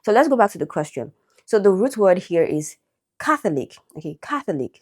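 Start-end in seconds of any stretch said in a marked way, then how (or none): 3.2-3.8 "Catholic" stressed on CATH; first-syllable stress. Shown as a demonstration. Teacher introducing the root word, first-syllable stress. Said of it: "stress on the first syllable". 4.2-4.8 "Catholic" stressed on CATH, falling after it; first-syllable stress. Shown as a demonstration. Teacher repeating the root word, first-syllable stress. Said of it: "stress on the first syllable".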